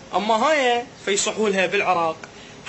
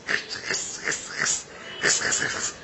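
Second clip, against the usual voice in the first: whispered, soft crunch of خس over and over; crunching lettuce sound; 6 dB quieter, slower than usual. Shown as a demonstration. Explaining where the word comes from, whispers خس like crunching. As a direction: mimic lettuce crunching between your teeth. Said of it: "يطلع خس".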